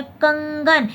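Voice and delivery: कंगन said slowly, the nasal अंग clearly sounded; slow careful pronunciation. Shown as a demonstration. Teacher showing students the anusvara sound in कंगन, slowly. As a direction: draw out कंगन so the ng is heard. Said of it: "आप उच्चारण करके देखेंगे".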